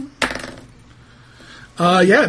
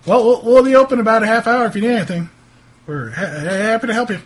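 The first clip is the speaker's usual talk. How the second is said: higher, stammering, obliging shopkeeper; lightly flustered, eager-to-please townsman; 3 semitones higher, faster than usual. Acted. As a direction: hurry visitors off politely.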